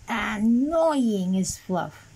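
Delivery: slow, drawn-out exasperation; annoyed. Real, not acted. Reviewer fed up with wings falling off, annoyed. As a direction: stretch the words out in irritation. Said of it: "being annoyed".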